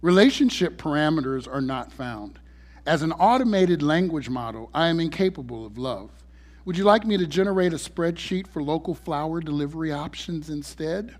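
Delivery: cold, flat machine monotone; robot voice. Acted. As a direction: read it like an emotionless AI. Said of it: "a cold, monotone voice replied".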